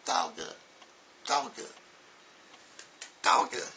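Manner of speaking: hint of kids parroting "Dogga"; mock class repeating after teacher; imitating kids' echo. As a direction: repeat it in separate, rote little bursts. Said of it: "Little kids on the floor".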